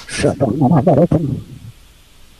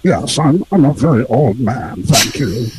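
put-on filtered old man voice; wobbly old man. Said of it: "really good, actually".

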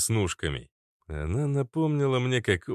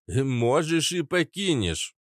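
slow, higher, creaking voice; creaky old-timer; 7 semitones higher, slower than usual. Acted. Papa Kats overrules the girl, creaky and slow. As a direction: creak it out slowly. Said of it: "проскрипел папаша Кац".

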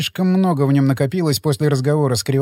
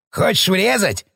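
yelling; 4 semitones higher than usual. A narrator's reading. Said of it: "орал Кривокрасов".

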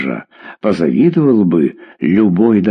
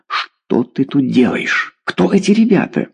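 indignant interrogation; 4 semitones higher than usual. Acted. Mother questioning daughter about the kids, indignant. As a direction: demand answers with rising indignation.

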